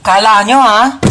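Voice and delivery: loud taunting gloat. Acted. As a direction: taunt the absent siblings. Gloating over stolen chocolate.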